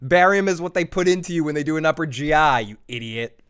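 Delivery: exasperated correction, hammed up; imitated listener yelling. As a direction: scold the host like a know-it-all fan. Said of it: "were screaming".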